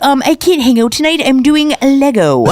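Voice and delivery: a gamer turning down a date; nerdy dude. Retold or imitated. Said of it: "And they're like".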